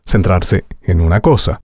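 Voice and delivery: ordinary talk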